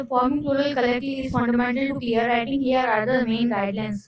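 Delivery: reads the English rule out slowly, word by word; slow rule reading. Acted. Teacher slowly reads the rule to her students. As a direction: read the textbook line slowly and carefully.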